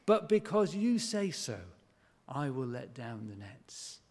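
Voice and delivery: grudging. Retold or imitated. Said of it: "imagine the chuntering".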